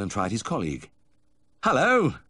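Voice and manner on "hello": high, loud hello across the quay; called greeting. A narrator's reading. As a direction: call out to the guard. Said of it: "I called, waving again".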